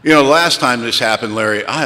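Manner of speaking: indignant mock outrage. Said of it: "I got right in his face".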